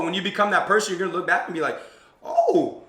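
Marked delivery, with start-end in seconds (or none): 2.2-2.8 a big high leap of surprise; amazed oh. Retold or imitated. Future self looking back, amazed high oh. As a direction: gasp at your own success.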